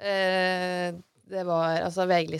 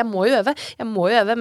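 louder, higher stressed self-talk; frantic insistence; 4 semitones higher, 10 dB louder than usual. Retold or imitated. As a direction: repeat it in mounting stress. Stresset selvsnakk om å øve. (stresset, masete selvsnakk)

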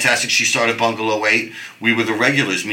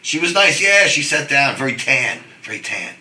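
excited bragging; 6 semitones higher than usual. Retold or imitated. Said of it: "so we'd be like".

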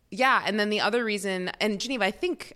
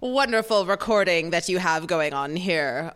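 Mid-Atlantic announcer voice; 4 dB louder than usual. Acted. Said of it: "Mid-Atlantic, nineteen fifties announcer voice".

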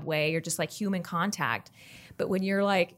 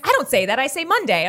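loud, higher imitation of a South Texan dad denying it; protesting South Texas dad, pitched up; dad's South Texas accent; 7 semitones higher, 6 dB louder than usual. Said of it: "But he was like".

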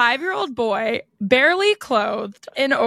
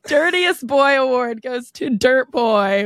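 mock award announcer. Acted award announcement at the races.

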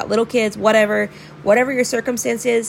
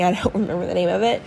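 laughing; faster than usual. Real, not acted. Laughs at forgetting name.

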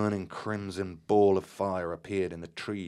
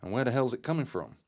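higher, fast startled question; astonished; 6 semitones higher, faster than usual. Acted. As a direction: rush it out in amazement. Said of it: "I exclaimed in astonishment".

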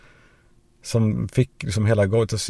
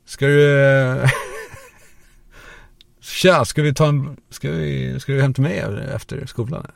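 put-on higher, swaggering drawl of a tough boy; cocky naked boy; 5 semitones higher, slower than usual. Well-endowed boy hits on classmates, cocky swagger. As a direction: strut and drawl the come-on. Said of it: "nakna och bara".

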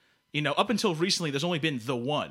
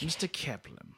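put-on James Mason accent; 7 dB quieter than usual. Villain confirms the name to contestant, James Mason accent. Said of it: "Who is this character supposed to be?".

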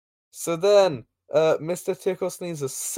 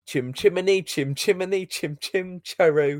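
put-on Cockney accent; 3 semitones higher than usual. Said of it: "whatever Dick Van Dyke was doing".

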